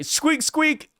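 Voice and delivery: high rubbery squeaks; squeaky toy voice. Retold or imitated. Imitating squeaky creature.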